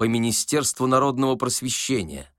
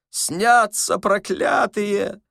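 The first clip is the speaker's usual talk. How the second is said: high, slow, drawn-out lament; old man's wail; 10 semitones higher, 4 dB louder, much slower than usual. A narrator's reading. Old man cursing his dreams, high carrying wail. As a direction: cry out plaintively from a distance. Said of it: "донёсся до Остапа голос старика".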